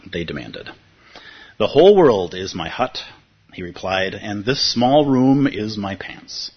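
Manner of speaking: teacher rereading a parable on request; story reading. Acted. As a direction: reread the parable calmly for the room.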